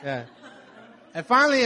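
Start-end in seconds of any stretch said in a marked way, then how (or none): 1.1-1.7 higher, louder restart with a chuckle; restarting with a laugh. Real, not acted. Preacher resuming his story to the congregation with a laugh. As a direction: pick the line back up laughing at the interruption. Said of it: "what'd you say?".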